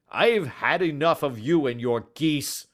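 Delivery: loud angry shout. Acted. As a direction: yell it out furiously. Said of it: "he shouted".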